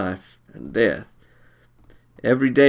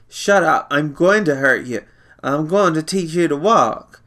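put-on bossy older brother; 5 semitones higher than usual. Brother bullying Doodle.

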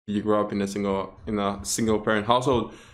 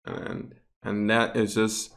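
mock-serious deadpan claim; sarcastic. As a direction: state it earnestly, with tongue in cheek. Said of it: "I'm being sarcastic".

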